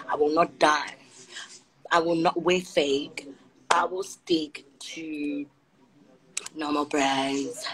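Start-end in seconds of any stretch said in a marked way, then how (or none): 3.7-7.7 slow hushed confession; whispered aside. Real, not acted. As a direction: drop to a slow hush for the last words. Hushed aside about brands.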